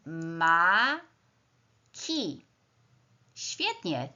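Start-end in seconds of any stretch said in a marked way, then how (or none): 0.1-1.1 "Maki" as two beats, ma - ki, with a long gap; split into syllables. Shown as a demonstration. Teacher answering how many syllables, "Maki" syllable by syllable. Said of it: "Podzielmy teraz każdy z tych wyrazów na sylaby".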